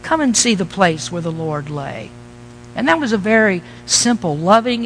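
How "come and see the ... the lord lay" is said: low, soft and tender invitation; gentle angel. Retold or imitated. Angel invites the frightened women to see the tomb, gently and softly. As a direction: coax them in kindly and softly. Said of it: "he very gently said".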